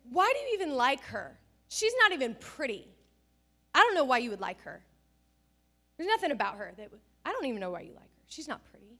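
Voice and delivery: loud, mocking schoolboy yell; retold shout. Boy shouting insults at a classmate, a loud mock yell. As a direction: shout it across the room like a rude boy. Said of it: "at the top of his lungs".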